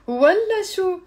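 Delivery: والله شو high and loud, falling; scornful refusal. Shown as a demonstration. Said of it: "I'm saying, "Of course not".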